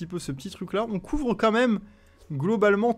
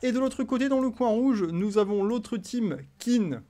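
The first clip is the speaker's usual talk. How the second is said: fight promoter; 5 semitones higher than usual. Acted. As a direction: call it like a ringside MC. Presents the red corner team.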